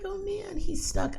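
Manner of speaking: high amused gossip to son; mock worried uh-oh. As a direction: squeal it out in delight. Same remark again.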